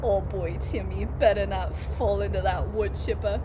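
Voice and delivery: put-on Boston-leaning accent; accent slipping into Boston. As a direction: play it in a rough Boston accent. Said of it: "I got more into Boston".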